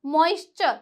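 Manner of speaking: "मॉइस्चर" ending in chur; TURE as "chur". Shown as a demonstration. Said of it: "चर का sound दिया".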